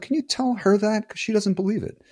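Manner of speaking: imitating a guy, pitched well up; high mock stranger voice. Stranger stops him to compliment his girlfriend, high mock voice.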